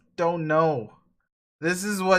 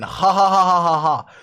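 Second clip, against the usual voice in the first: louder, can't-stop laughter; helpless laughter; 6 dB louder than usual. Acted. Dave conceding his selfies are comedy gold, laughing. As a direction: crack up again. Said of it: "Why can't I stop laughing?".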